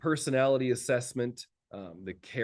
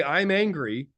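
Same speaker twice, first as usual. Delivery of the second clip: mock blunt shout; 8 semitones higher, 6 dB louder, slower than usual. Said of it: "all he did was say".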